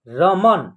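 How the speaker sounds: रमन joined into one word, ending on a closed n; joined pronunciation. Shown as a demonstration. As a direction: blend रमन together, no vowel after न. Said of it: "जोड़ करके एक साथ इसका उच्चारण".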